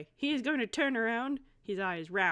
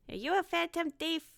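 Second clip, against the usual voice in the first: put-on curious young hero; 8 semitones higher than usual. Player voices Rye questioning cat.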